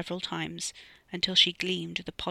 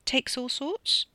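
nervous; 7 semitones higher, much slower than usual. Acted. Nervous tentative reply.

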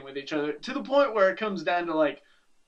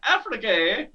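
put-on a weak, wobbly Irish accent that drifts toward South African; 5 semitones higher than usual. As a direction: try an Irish lilt and miss. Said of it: "That was a South African Irish accent".

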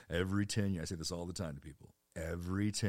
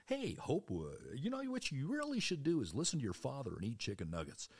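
fake sweet parent; 7 semitones higher than usual.

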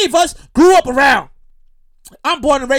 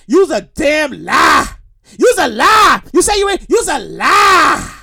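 calling out; 4 dB louder, slower than usual. Real, not acted. Calling out liars about Conway.

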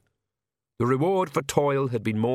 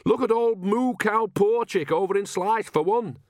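much higher, insistent village woman; Nanny, insistent; 9 semitones higher than usual. Acted. Nanny giving the king an example, high and insistent. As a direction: pipe up high to prove the point.

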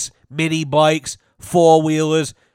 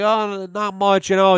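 trying to sound cool; 6 semitones higher than usual. Retold or imitated. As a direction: play it cool, stretching the words. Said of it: "He's trying to be cool".

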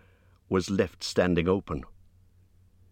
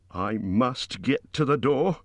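anxious muttering to himself; 7 semitones higher than usual. Acted. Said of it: "he kept on saying to himself".

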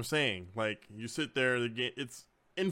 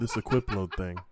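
lower, hesitant imitation of a humbled friend; mock sheepish; 4 semitones lower than usual. Friend imitating player returning minutes later, mock sheepish. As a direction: ease back in awkwardly after a sulk.

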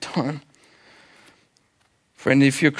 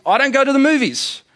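emphatic outburst; 11 semitones higher, 4 dB louder than usual. Acted. Exasperated sacrifice, sudden pitch jump.

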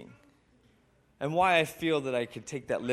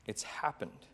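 softer, drawn-back repeat of It's happened; hushed echo; 8 dB quieter than usual. A narrator's reading. Narrator softly echoing Jesus's words to John, hushed. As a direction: let It's happened fall away like an echo.

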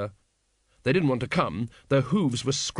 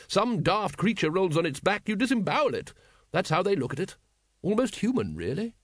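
higher, lively lady's voice; brisk dragon expert; 6 semitones higher than usual. A narrator's reading. Lady Ramkin explaining dragon fights to Vimes, high and emphatic.

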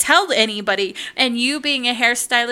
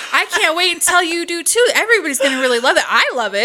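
enthusiastic agreement; 6 semitones higher, 7 dB louder, much faster than usual. Retold or imitated. Man shares her excitement.

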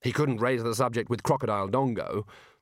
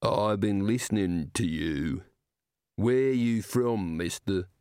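enormous slow giant rumble; 3 semitones lower, slower than usual. Acted. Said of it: "said the giant's beer".

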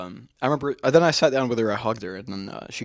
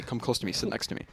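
softer, fading to a whisper; mock soft coaxing; 3 semitones lower, 7 dB quieter than usual. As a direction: draw him in quietly. Ex quietly coaxing him closer.

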